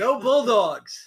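drawn-out high cheer; slow cheer. Pretend. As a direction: chant it like a fan. Hammed-up cheer for Georgia team.

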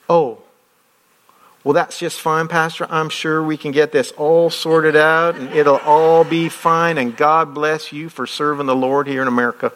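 lightly mock a syrupy Southern lady's charm; southern accent. Pastor imitates the Southern valuation woman, sweet Southern accent. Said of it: "She had a southern accent".

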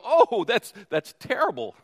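hammed-up sorrow that secretly gloats; mock sympathy. Preacher mimicking a gloating churchgoer, hammed-up fake pity. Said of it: "and you go".

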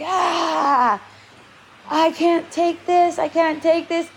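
a hint of a teenager who can't cope; imitating distressed teen. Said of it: "He's like".

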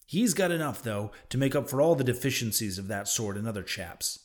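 nervous stress on the word He's; nervous emphasis on he. Acted. Stranger to Ishmael, nervous stress on He's. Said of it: "placing a nervous emphasis upon the word he".

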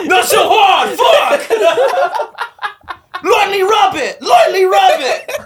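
high, loud squeaky character shout; high mocking character yell; voiced clit character. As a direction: complain like a bossy little creature.

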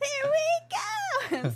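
loud, high, long-drawn "here we go"; laughing, drawn-out kickoff shout; big launch call. Real, not acted. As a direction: stretch it out as a rallying cry. Gearing up for huge emoji list.

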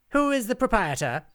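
high, loud imperious witch; demanding witch. A narrator's reading. Witch confronts the huddled inn, loud imperious demand. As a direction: demand it as if you rule the room. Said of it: "demanded the first witch".

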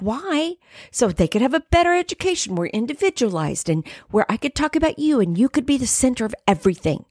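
high, rushed, exasperated justification. Retold or imitated. A ranting mother justifying homeschooling to God, exasperated. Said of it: "And I was so mad. I was so exasperated".

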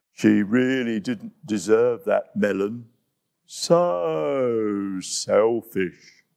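low, very slow disapproving murmur; a hint of a sulky hippo; grumbling Hippo. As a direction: drag out the judgment.

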